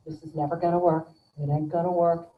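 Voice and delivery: low-pitched doom-saying; mock pessimism. Neurotic interviewee predicting failure, low and gloomy.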